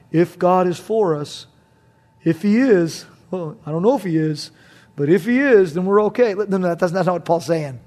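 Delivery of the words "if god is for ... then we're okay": doubtful question. Shown as a demonstration. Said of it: "don't read that like it's a question".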